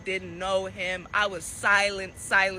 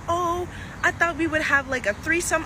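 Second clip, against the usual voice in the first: mocking girlfriend voice; 7 semitones higher than usual. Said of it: "She's like".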